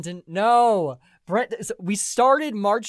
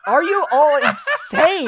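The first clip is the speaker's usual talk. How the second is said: laughing disbelief; 10 semitones higher, 9 dB louder, slower than usual. Real, not acted. Disbelieving during year argument.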